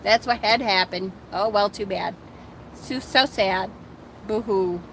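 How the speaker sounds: breezy, shrugging imitation of Vivian; imitating Vivian's dismissive shrug; mock nonchalant. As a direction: toss it off like it's nothing. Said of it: "she's so nonchalant".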